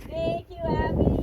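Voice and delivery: high, slow sing-song thanks; drawn-out high thank you. Acted.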